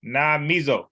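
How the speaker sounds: na mizo, mi given weight; stressed mi in na mizo. Shown as a demonstration. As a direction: land on mi. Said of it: "you gotta emphasize the E".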